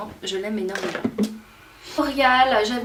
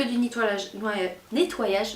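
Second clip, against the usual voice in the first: slowing down; slower than usual. Real, not acted. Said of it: "je parle trop vite".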